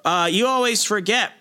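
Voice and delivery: reminding Hulk who he really is; gloating villain. Retold or imitated. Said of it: "he's like".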